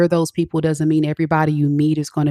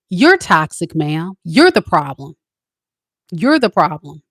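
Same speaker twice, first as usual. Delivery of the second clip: scolding call-out; 4 dB louder than usual. Real, not acted. Scolding toxic women listeners.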